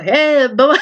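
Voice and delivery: put-on high child's shout; toddler shouting. Little boy calling dad Bubba, high excited shout. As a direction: belt it like a little kid calling out. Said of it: "little random little boy called my dad Bubba".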